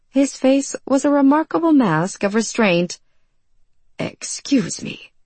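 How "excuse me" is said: soft, breathy, slow "excuse me"; brittle voice. Acted. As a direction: say it brittle, half coughed. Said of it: "Marvel coughed in a brittle voice".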